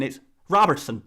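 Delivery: attempted Scottish accent slipping into Irish; botched Scottish accent. YouTuber failing at a Scottish correction, accent drifting to Irish. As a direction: badly fake a Scot saying "Robertson", sounding Irish. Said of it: "no, that's an Irish accent".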